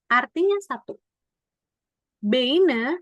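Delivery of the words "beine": "Beine" said bay-na; read as spelled. Shown as a demonstration. Teacher showing the written form, bay-na for "Beine". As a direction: literal E-I vowel in "Beine". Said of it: "itu bukannya bacanya beine".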